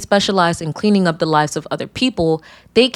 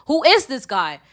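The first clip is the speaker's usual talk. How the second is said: 1 mock confused man; 5 semitones higher than usual. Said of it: "he was like".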